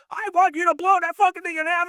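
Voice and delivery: yelling director. Retold or imitated. Director yelling at the effects boss, high strained yell. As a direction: bark the order like the director. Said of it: "he's fucking yelling at me".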